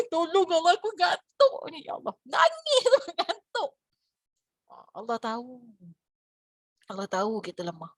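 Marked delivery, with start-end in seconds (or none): 0.1-2.1 sleepy worshipper. Retold or imitated. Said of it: "dia menangis". 2.3-3.7 laughing whisper. Real, not acted.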